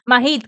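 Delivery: "Mahit" with a breathed H before the I; aspirated H. Shown as a demonstration. Streamer settles on the name, "Mahit" with aspirated H. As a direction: sound the H in "Mahit". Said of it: "con H aspirada".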